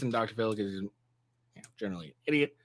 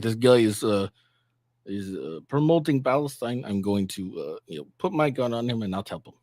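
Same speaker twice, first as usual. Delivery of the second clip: put-on a light Russian accent on the Israeli cops; mock Russian accent, barely put on. Vlogger voicing Israeli police, light Russian accent. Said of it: "I just did a Russian accent".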